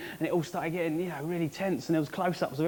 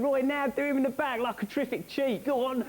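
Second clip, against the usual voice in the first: excited urging; 7 semitones higher than usual. Retold or imitated. Urging Roy on.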